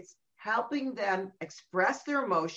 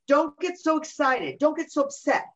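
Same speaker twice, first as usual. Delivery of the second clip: scolding parent; 7 semitones higher, 4 dB louder than usual. Retold or imitated. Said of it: "People need to stop telling people".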